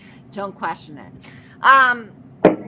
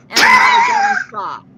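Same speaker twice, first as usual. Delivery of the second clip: high mock shout; 6 dB louder than usual. Shouted punchline.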